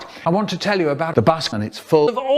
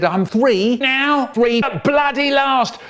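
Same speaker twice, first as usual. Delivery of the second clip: put-on little boy; 10 semitones higher, slower than usual. Little brother boasting age.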